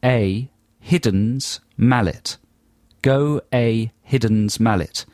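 "Hidden's mallet" slowly, word by word; spaced-out dictation of "Hidden's mallet"; phonetic spelling read. Shown as a demonstration. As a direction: read "Hidden's mallet" as separate, slow words. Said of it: "if you write down the words".

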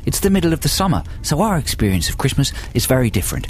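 put-on Aussie accent, chatty explaining; badly faked Australian presenter; mock Australian accent. Host explains boiling Christmas in Oz, mock Australian accent. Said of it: "speak with completely authentic Australian accents".

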